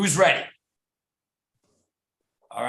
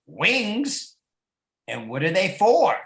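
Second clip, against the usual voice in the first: put-on curious baby; 6 semitones higher than usual. Baby turkey voiced.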